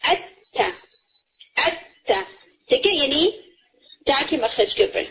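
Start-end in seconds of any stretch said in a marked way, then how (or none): 0.0-2.2 اتا with a light nasal touch; ikhfa demo. Shown as a demonstration. Teacher showing tongue position, soft nasal. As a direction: say اتا with the tongue close to the gums. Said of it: "وہ کیا ہوگی".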